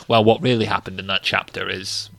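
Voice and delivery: put-on low-pitched historian with a northern accent. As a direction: play the expert as a northerner. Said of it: "I don't know why he's northern".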